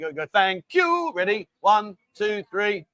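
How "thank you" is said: high sing-song thanks; cute high thank you. Shown as a demonstration. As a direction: pitch it way up and sweet. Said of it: "After three, you gotta do that".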